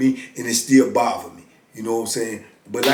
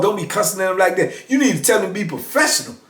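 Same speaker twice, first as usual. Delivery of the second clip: mocking repeat; 5 semitones higher, faster than usual. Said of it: "What are you talking about?".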